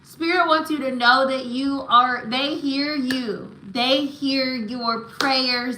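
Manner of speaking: slow down and press each assurance home tenderly; emotional reassurance. Real, not acted. Reader telling client that spirit hears them, moved and slow. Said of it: "I feel emotional".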